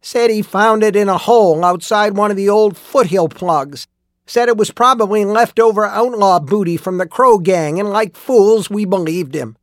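high-pitched, heated bitter rant; furious ranting. A narrator's reading. Old miner telling lawmen how he was fooled, furious ranting. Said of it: "He was furious".

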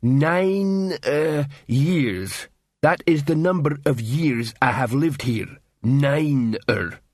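proud slow troll voice; a troll proud of his counting. Acted. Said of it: "said Detritus proudly".

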